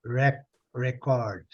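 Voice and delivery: REC isolated first, then record with that syllable leading; slow demo of record, front syllable set apart; stress on first syllable. Shown as a demonstration. Teacher breaks down the noun, record stressed on REC. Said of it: "é a primeira".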